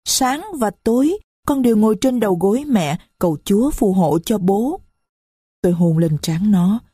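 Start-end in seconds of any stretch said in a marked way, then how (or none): 0.0-4.8 put-on higher, small voice of a young girl; little girl's voice. Little Marie complains to the stranger, high child voice. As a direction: speak as a little child who is hurt.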